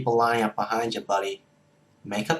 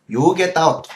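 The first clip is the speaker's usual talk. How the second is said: put-on louder accented order; 3 semitones higher, 6 dB louder than usual. Taxi driver repeats, louder.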